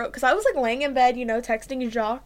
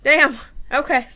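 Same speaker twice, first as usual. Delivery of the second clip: real shock; 3 semitones higher, 8 dB louder, slower than usual. Real, not acted. Reacting to shooting reveal.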